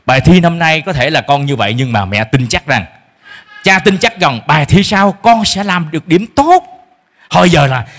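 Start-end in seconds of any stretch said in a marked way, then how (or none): 0.1-6.6 put-on slow, gentle comfort to a child; reassuring parent. Shown as a demonstration. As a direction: soothe the child after a bad test. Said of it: "Hãy nói với con sao".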